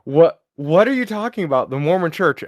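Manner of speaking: baffled demand for an explanation; incredulous. Acted. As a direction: Jane can't believe the Mormon church answer, mildly incredulous. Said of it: "and she's like".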